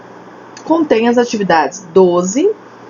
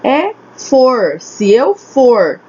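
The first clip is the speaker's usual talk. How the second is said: slow demo; much slower than usual. Shown as a demonstration. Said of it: "A palavra aqui no".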